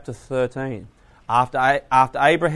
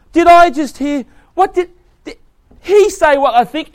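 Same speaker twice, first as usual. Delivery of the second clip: high, loud stunned outrage; can't believe what they just heard; loud, high, incredulous gasp of a question; shocked disbelief; 13 semitones higher, 10 dB louder than usual. Retold or imitated. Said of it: "They're shocked".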